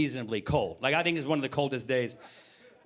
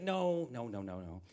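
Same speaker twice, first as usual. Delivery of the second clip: ominous hush; 6 semitones lower, 8 dB quieter, slower than usual. Retold or imitated. Wife warns it gets worse.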